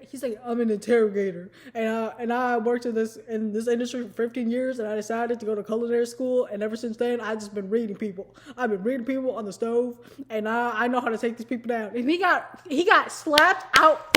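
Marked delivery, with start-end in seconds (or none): 0.4-11.9 lightly put-on lower voice; mock a self-important tough guy; slightly lowered, solemn bragging imitation; boastful contestant.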